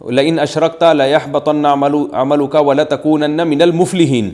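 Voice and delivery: chanted verse ending on الْمُفْلِحِينَ instead of الْخَاسِرِينَ; wrong recitation. Shown as a demonstration. Mufti acting out a serious misreading of the verse, recited. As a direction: recite it as the mistaken reader would, ending with الْمُفْلِحِينَ. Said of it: "جیسے کسی نے آیت پڑھی".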